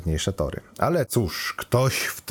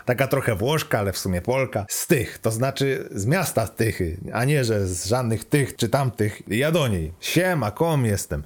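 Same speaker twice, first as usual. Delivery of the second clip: higher, breezy know-it-all computer; lightly voiced chatty AI; 4 semitones higher than usual. Car computer advises the lovestruck student, chatty and cheeky. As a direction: lightly play an AI rattling off romantic advice.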